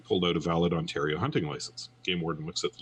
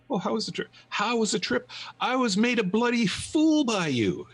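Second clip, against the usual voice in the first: angry husband. Acted. Joke: angry husband mocks wife.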